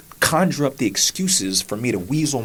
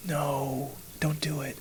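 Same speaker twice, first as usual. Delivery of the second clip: soft, slow reassurance; calm him down softly; gently soothing wife; 5 dB quieter, slower than usual. Retold or imitated. Wife on the phone steadying her crying husband, soft and slow. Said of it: "And she's like".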